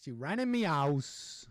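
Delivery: mock British accent, drawn out slowly; imitated British accent. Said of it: "in the lady's accent".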